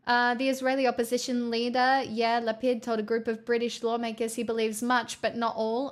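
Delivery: even, lightly formal news update; news read. Acted. Streamer updates chat on the war, news read. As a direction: read out the latest update evenly.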